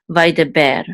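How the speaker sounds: "vaideber" blended from its syllables; pronunciation demo. Shown as a demonstration. Teacher putting the Hebrew word together, clear demo. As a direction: sound out "vaideber", ending on "ber". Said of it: "together will say ber".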